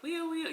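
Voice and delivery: high wailing siren imitation; high mock siren wail; siren noise.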